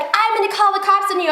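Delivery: imitated threat. Acted threat from angry woman.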